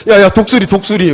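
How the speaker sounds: loud kid yelling a cartoon special move; hammed-up cartoon battle cry; cartoon move shout. Kids shouting soccer cartoon move.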